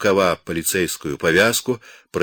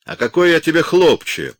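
high, loud angry snap; snapping angrily; 11 semitones higher, 7 dB louder than usual. A narrator's reading. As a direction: bark it back, offended. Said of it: "окрысился полицай".

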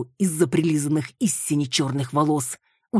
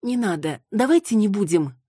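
higher, louder as she pleads; Маруся begging; 6 semitones higher, 3 dB louder than usual. Acted. Маруся pleading with Виола not to burn it. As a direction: beg them, growing.

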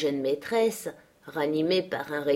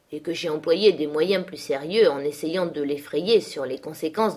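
lightly voiced menacing man, louder; Heathcliff scolding; 3 semitones higher, 3 dB louder than usual. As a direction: threaten the girl with her letters. Heathcliff confronts Cathy. (Heathcliff menaçant, un peu plus fort)

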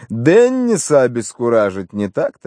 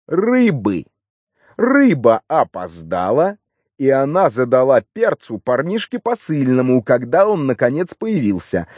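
higher, animated recounting; a hint of a pleased policeman telling his findings; lightly voiced triumphant inspector; 5 semitones higher than usual. Inspector reporting how he cracked the witness, mildly triumphant.

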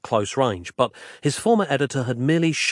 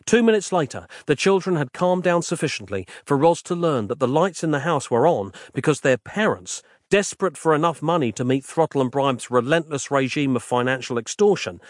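plain reading voice

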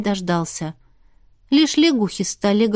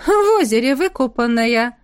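sinister taunt. A narrator's reading. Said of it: "зловеще хохотнула Настя".

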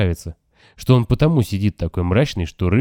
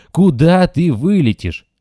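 Куда drawn out, higher and louder, almost a wail; near howling; 8 semitones higher, 5 dB louder, slower than usual. A narrator's reading. Narrator almost howls at the frightened young rat. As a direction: wail Куда ты вылетишь slowly, near a howl. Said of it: "я уже почти завываю".

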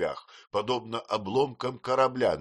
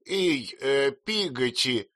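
louder, higher call, slow; 7 semitones higher, 4 dB louder, much slower than usual. A narrator's reading. Aunt calls the servant through the door, loudly. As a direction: call down the hall. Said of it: "крикнула мисс Бетси".

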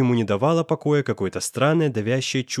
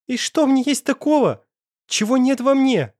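much higher and louder, hysterical; hysterical tearful scream; 12 semitones higher, 4 dB louder than usual. A narrator's reading. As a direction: shriek it through sudden tears. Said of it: "Истерично закричала она сквозь брызнувшие вдруг слёзы". (истеричный крик сквозь слёзы)

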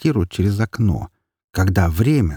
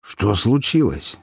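a hint of an innocent nine-year-old; innocent boy voice; 2 semitones higher, slower than usual. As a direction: play innocent, slow and childlike. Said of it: "невинным голосом девятилетнего мальчишки".

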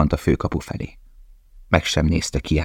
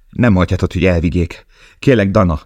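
urgent plea, a touch louder; pleading; 3 semitones higher, 4 dB louder than usual. Acted. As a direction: beg her not to let them take Gita. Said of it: "könyörgött Lale". (könyörögve, sürgetően)

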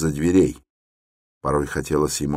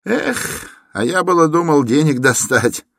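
exclaiming; 11 semitones higher, 4 dB louder than usual. Acted. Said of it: "вскричал молодой человек".

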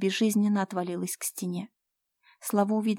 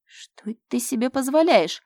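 higher, louder indignant shock; taken aback; 5 semitones higher, 7 dB louder than usual. Acted. Mira shocked at Fyodor's insolence, indignant. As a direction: recoil in outrage. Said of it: "опешила Мира".

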